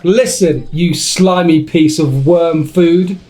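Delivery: hammed-up threats to a rival, pressing on each insult; mock angry rant. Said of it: "That was quite angry".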